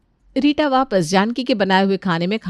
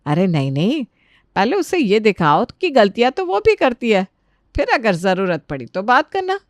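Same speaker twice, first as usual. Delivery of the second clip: lightly voiced elder, swinging intonation; advising mother-in-law. Mother-in-law advising daughter-in-law how to answer back, knowing. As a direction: counsel her like a scheming ally.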